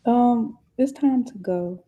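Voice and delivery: drowsy, unhurried delivery; slow and drowsy; slow talking. Real, not acted. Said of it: "the speaker talking all slow".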